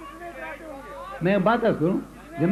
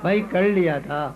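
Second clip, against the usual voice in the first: poem recital. Acted. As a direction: savour each line for the audience. Recites second qita.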